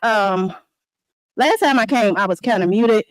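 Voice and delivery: loud, close-miked public comment; real fired-up yelling at the mic; angry resident yelling at a village meeting. Real, not acted. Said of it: "you lose a lot of what she's saying when she's yelling".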